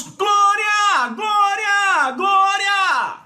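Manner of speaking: very high, drawn-out cries of glória; repeated exultant yells; shouted praise. Shown as a demonstration. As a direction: shout it out suddenly, high and ringing. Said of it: "Por que estão gritando?".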